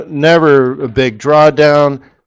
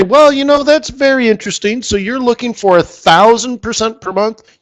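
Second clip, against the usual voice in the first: dry disbelief; 10 semitones higher than usual. Retold or imitated. Own retold dry reply.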